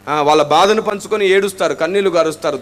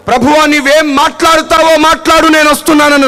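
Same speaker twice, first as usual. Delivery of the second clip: right prayer; 5 semitones higher, 5 dB louder than usual. Shown as a demonstration. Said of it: "మందిరానికి వచ్చేటప్పుడు".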